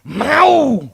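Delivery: put-on loud high kid insisting; child insisting he wants it; demanding child. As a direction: stamp it out like a spoiled kid.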